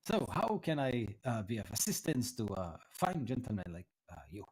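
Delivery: put-on mildly flattered, courteous old scholar; lightly voiced old tiefling, pleased. Flattered tiefling offers help to the visitor, lightly voiced and courteous. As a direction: accept flattery, then offer polite help.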